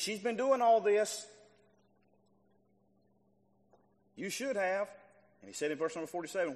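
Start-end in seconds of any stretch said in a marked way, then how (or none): 0.0-4.9 louder, slow pointed rebuke; slow, loud rebuke to Simon; forceful rebuke. Acted. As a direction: press each word home slowly. Voicing Jesus' rebuke.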